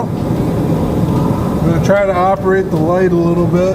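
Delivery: talking while lying under a car; speaking on your back under a car. Real, not acted. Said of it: "so I'm under the car right now".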